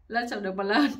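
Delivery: words breaking into a laugh; laughing quip. Real, not acted. Storyteller laughs through the husband's blunt excuse, laughing. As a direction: crack up while delivering it.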